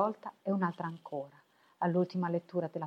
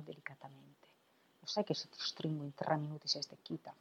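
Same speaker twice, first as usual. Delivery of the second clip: whisper; 6 dB quieter than usual. Acted. Hands round her neck, teasing.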